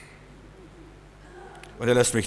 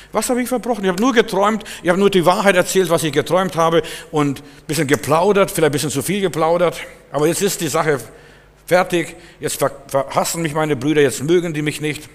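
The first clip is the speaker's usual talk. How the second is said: put-on much higher, louder plaintive boy's voice; young Josef lamenting; 4 semitones higher, 4 dB louder than usual. Sold Josef complains that his brothers hate him, high and pleading. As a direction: cry out in hurt confusion, pitched up high. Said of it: "Der Bub hat das nicht verstanden".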